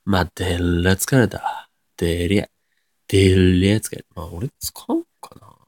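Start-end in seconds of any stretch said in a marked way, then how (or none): 0.1-4.1 Nagoya dialect demonstration; 名古屋弁. Shown as a demonstration. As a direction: try it out in Nagoya intonation. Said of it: "対応する名古屋弁として". (名古屋弁で疲れたと言ってみる)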